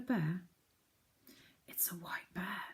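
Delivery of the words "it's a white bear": whispered, much softer; half frightened. Acted. Moonface seeing the sleeper, scared whisper. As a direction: breathe it out nervously. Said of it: "half frightened".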